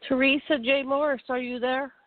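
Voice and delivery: ordinary talk, nothing marked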